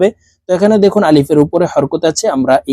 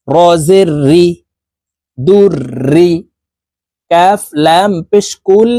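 slow, measured letter-by-letter recitation; spelling drill; much slower than usual. Shown as a demonstration. Teacher spelling syllables for learners, slow measured drill. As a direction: spell it out, then blend the syllables.

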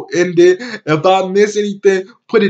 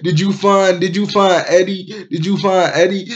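imitating an anxious, higher-pitched plea; worked-up questioning; 4 semitones higher than usual. Vlogger voicing a worried character asking about Eddie, mock worked-up. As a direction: retell it agitated, voice climbing toward the end. Retelling a frantic question in the story.

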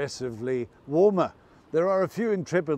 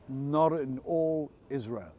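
slower repeat. Shown as a demonstration.

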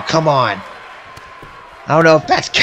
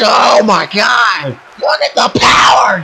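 drawn-out loud awe, then rising; excited shout; 2 semitones higher, 3 dB louder, slower than usual. Real, not acted. Wrestling commentator hyping the crowd, excited shout. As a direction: call the power move with real excitement. Commentator reacting to big slam.

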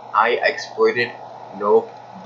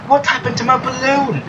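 very high, squeaky mock distress; high put-on voice. Gamer upset about a lost balloon, squeaky put-on voice. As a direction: wail it in a tiny high voice. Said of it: "I gotta stop speaking like this".

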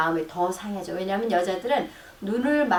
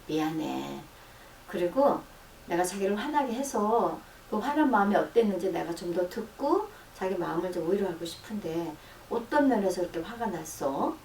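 quiet, gentle invitation to talk; calm tender apology to wife; soft apology demo; 4 dB quieter than usual. Shown as a demonstration. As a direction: soothe an upset wife softly. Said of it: "하고 이렇게 대화를 시작을 해줘야 돼".

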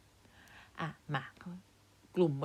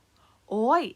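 sharp, high yelp of pain; loud pained cry; 6 semitones higher, 10 dB louder, much slower than usual. A narrator's reading. Big uncle hit on the foot by iron balls, crying out loudly. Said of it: "ลุงใหญ่ร้องดัง ร้องลั่น".

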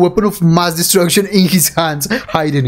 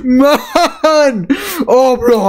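losing it with joy at the anime; overwhelmed excitement; 11 semitones higher, much slower than usual. Real, not acted. Reacting to a thrilling anime scene, squealing with excited laughter. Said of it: "I'm crying from excitement".

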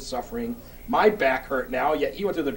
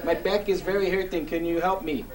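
put-on Andy's foreign accent. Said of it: "in that accent of his".

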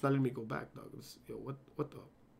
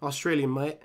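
soft, low stab at Australian; attempted Australian accent; 4 semitones lower, 5 dB quieter than usual. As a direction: try a half-hearted Australian accent. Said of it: "trying to speak Australian".

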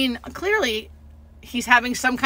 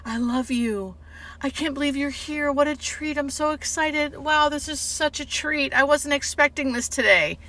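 welling up; 5 semitones higher than usual. Retold or imitated. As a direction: imitate someone touched almost to tears. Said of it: "like, welling up".

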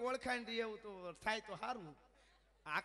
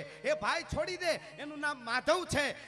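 commanding shout; 11 dB louder than usual. Acted. Outlaw orders his men to release Madhav, loud then calming. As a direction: roar it, then settle. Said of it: "રાડ નાખી એના માણસોને".

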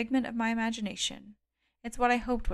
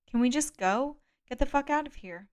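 higher, urgent and rising; begging to get away now; panicked plea; 5 semitones higher than usual. Acted. Kate panicked, begging to flee.

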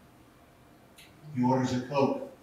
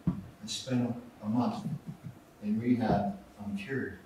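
sighing; 4 semitones lower, 6 dB quieter than usual. Retold or imitated. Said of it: "with a sigh".

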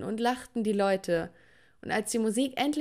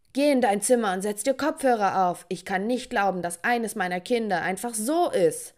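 father yelling. Acted. Father sends daughter with her music to her room, angry yell. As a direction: send her to her room, fed up. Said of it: "schrie mein Vater mich an".

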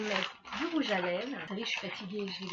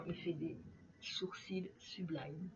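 whisper; 2 semitones lower, 8 dB quieter, slower than usual. Real, not acted. Admiring the brow product.

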